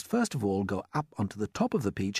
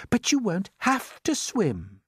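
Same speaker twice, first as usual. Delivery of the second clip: calmly; 11 semitones higher, 4 dB louder, slower than usual. A narrator's reading. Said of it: "said James calmly".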